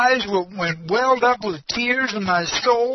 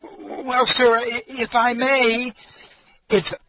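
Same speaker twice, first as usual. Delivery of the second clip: nervous; 4 semitones higher, slower than usual. Retold or imitated. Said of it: "very nervous".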